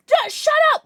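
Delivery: high fast flustered squeal; breathy cutesy giggly. Real, not acted. Flustered by chat teasing.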